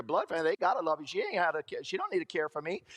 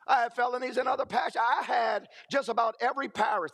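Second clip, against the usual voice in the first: emphatic shout; 5 semitones higher than usual. Real, not acted. Shouting at the audience about his felonies. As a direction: hammer home how bad it was.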